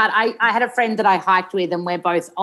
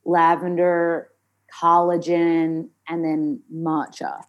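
American accent. Shown as a demonstration. Actor describing her matcha to host, American accent. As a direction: list ingredients in a put-on American accent. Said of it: "we'd talk in an American accent".

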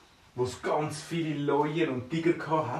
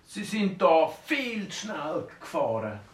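higher, stern mock cop; police officer; 5 semitones higher, slower than usual. Policeman stopping the speeding dwarf, mock stern. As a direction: halt him like a traffic cop.

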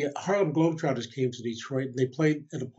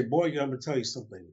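lightly voiced dad, quick delivery; a hint of dad's voice, words run quickly together; impression of dad; much faster than usual. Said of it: "do my impression of my dad".

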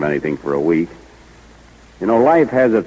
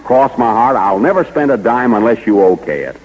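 higher, louder earnest vow; eager vow; 3 semitones higher, 4 dB louder than usual. Acted. Jack swearing to Mary he won't spend a dime, eagerly. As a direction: swear it to her with eager force.

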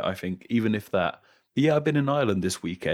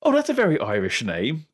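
mock amazement, higher pitch; imitating astonished listeners; 6 semitones higher, 4 dB louder than usual. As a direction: act out a stranger's surprised reaction. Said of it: "they lose their mind".

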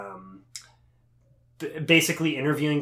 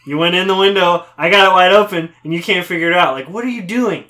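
laughing, louder frustrated rant; exasperated at a fly; 2 semitones higher, 4 dB louder than usual. Retold or imitated. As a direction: yell at the fly through laughter. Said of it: "Louis says".

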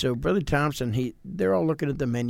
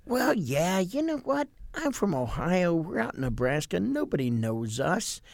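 mock-reassuring, coaxing tease in a raised, lilting voice; teasing pastor; 2 semitones higher than usual. The pastor ribbing a nervous young preacher, playful tease. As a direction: egg him on with a sly grin you can hear.

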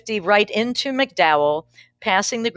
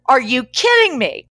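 higher, louder, exasperated outburst; incredulous yelling; 6 semitones higher, 7 dB louder than usual. Retold or imitated. Yelling at God in the car, incredulous. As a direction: throw it at the empty car seat in disbelief. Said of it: "I said I was yelling at God".

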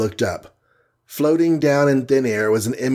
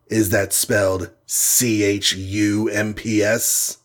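slow, sneering spelled-out jibe; leering taunt; slower than usual. Acted. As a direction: spell it out slowly to mock. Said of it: "leered the image".

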